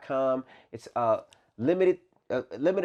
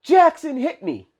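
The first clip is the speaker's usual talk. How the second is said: put-on high, slow, louder child's complaint; little girl tattling; 12 semitones higher, 8 dB louder, slower than usual. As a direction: whine it like a wronged little girl. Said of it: "So Brooklyn's like".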